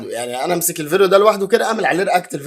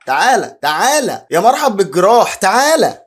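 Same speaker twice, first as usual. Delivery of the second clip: calling out loud and higher like a market hawker, drawn out; mock vendor shout; 4 semitones higher, 6 dB louder, slower than usual. Reacting to the vendor clip, shouting like a market hawker. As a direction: bellow the welcome across the market.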